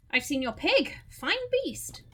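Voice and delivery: hammed-up praise, swooping high on BEAST; admiring visitor. Visitor praising the farmer's pig, hammed-up admiration. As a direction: play the visitor admiring the animal, high lift at the end.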